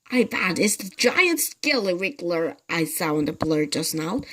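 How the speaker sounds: lightly voiced scheming husband; sly old man. Mr Twit slyly scaring his wife. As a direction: tease her with fake seriousness.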